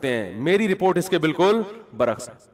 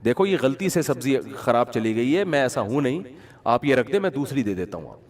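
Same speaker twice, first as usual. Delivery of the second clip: pleading seller; 5 semitones lower than usual. Retold or imitated. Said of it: "اس نے پھر کہا کہ".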